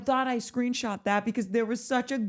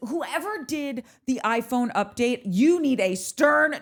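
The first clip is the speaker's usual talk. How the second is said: mock stern scolding; 2 semitones higher, slower than usual. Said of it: "stern talking to".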